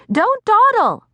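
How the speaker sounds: loud, high scolding yell; impatient yell. A narrator's reading. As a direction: hurry her down with a shout. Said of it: "Aunt yells up the stairs".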